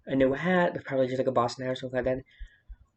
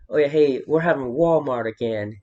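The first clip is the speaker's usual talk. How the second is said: louder mock Southern country guy; southern accent; 5 dB louder than usual. Imitating a country guy at Walmart, in a mock southern accent. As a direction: put on a hammed-up Southern accent. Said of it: "I'm giving it a southern accent".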